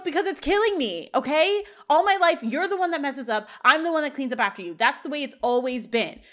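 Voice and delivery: half-shouted mock fight with a friend; acted yelling. Corey blaming Shawn for his messes, half-yelling. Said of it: "And Corey yells".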